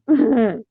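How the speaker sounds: high-pitched pretend wail; put-on sobbing whine; mock crying. Vlogger showing viewers how she cries, mock crying. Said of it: "I'll be all crying".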